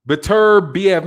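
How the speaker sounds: "Beterbiev" said slowly as buh-TUR-bee-ev; deliberate name pronunciation. Shown as a demonstration. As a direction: sound out "Beterbiev" with a reduced first syllable. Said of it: "pronounced both ways".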